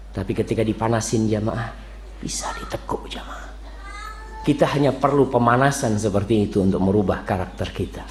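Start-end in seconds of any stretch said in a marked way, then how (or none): 2.2-3.5 hushed whisper for emphasis. Acted. Preacher whispers to the congregation that iron can bend, hushed. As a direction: drop to a secret whisper. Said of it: "whispered point".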